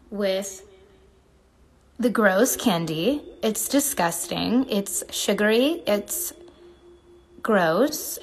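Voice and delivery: lightly voiced bored celebrity; a hint of a fussy reality star; Kourtney Kardashian. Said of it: "I can do a Kourtney Kardashian".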